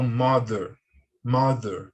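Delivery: "mother" said "mader", th close to D; voiced th. Shown as a demonstration. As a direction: model "mother" slowly with a D-like th. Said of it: "parece muito com o som do D".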